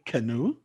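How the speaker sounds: canoe as "kuh-NOO"; UK pronunciation. Shown as a demonstration. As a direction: model canoe with a short first vowel and stressed "noo". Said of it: "just listen to the sound".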